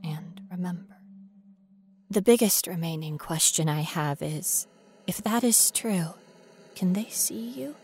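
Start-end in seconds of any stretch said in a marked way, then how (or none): 0.0-1.0 whisper. Acted. Whispered trailing phrase. 5.1-7.7 whisper. Acted. Whispered question to ghost.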